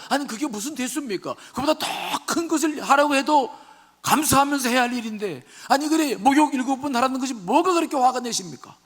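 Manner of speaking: high-pitched, insistent appeal to an angry master; servants remonstrating. Acted. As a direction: act out a servant pleading for reason. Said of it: "지혜로운 종들이 나서서 말합니다". (주인을 말리는 종의 간곡한 항변)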